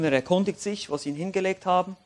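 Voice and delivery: ordinary delivery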